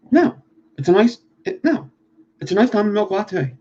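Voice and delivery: high, pushy Philly coffee order; hammed-up Philly accent, annoyed. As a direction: fire it off like a local. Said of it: "get a coffee".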